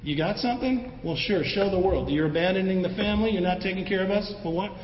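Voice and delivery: exaggerated taunting of an older brother; mocking. Younger brothers needling their older brother Jesus, mocking. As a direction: goad him with mock challenges, quick in the middle. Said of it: "They were essentially mocking him and going".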